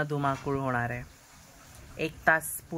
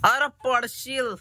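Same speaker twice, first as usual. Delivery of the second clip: louder, higher, slow call of "अरे पडशील"; sharp warning; 7 semitones higher, 4 dB louder, slower than usual. Real, not acted. Warning baby near edge. (बाळ पडेल म्हणून मोठ्याने, ठासून ताकीद)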